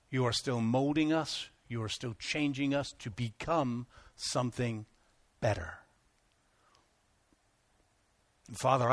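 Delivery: earnest spoken prayer to God. Acted. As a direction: pray it sincerely, rising with feeling. Leads the closing prayer.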